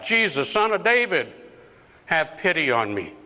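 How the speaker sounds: acted cry for attention; calling out. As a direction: call out for pity as Jesus passes. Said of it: "he called out".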